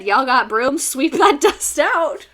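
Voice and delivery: mock Hoover. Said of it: "Homie said".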